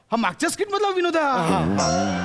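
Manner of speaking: slow, drawn-out shout of discovery; outraged exclamation. Acted. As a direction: cry out the accusation, stretching it. Host discovers the stolen joke.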